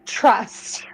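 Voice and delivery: breathy whispered aside. Acted. Speaker whispers a knowing aside to the audience. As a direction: whisper it like a secret. Aside after a confident remark.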